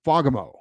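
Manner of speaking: Fagemo said with the accent on FA; stress on first syllable. Shown as a demonstration. Host teaching listeners the name, first syllable stressed. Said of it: "with the accent on the first syllable".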